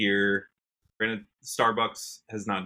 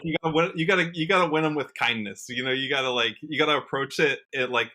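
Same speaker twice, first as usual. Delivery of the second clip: imitating wife gently. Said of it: "and she's like".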